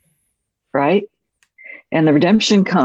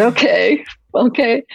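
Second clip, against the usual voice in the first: eager okay; 7 semitones higher than usual. Retold or imitated. Eager reply to Heath.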